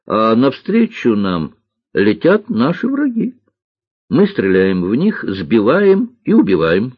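put-on boy pilot's account, slowing as it goes; lightly voiced boy, deliberate and emphatic by the end; маленький лётчик. Маленький лётчик описывает свой день. (мальчик-лётчик, с растяжкой к концу)

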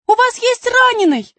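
put-on high loud concerned girl; urgent call. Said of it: "сказала Алиса". (обеспокоенный крик)

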